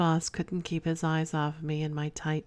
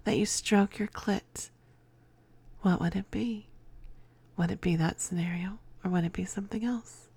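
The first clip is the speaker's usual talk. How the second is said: sultry whisper. Real, not acted. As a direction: lean in close and breathe the questions. Teasing fantasy questions, whispered.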